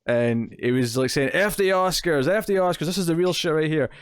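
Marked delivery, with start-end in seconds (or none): 1.3-3.9 higher-pitched, hammed-up French accent; shitty French accent. Podcaster mimicking a drunk awards-show guest, in shitty French accent. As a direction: imitate a drunk game maker in a bad French accent. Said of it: "why I'm doing kind of a shitty accent".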